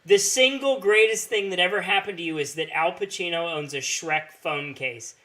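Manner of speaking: angry rant. Real, not acted. Ranting at a fan's tweet.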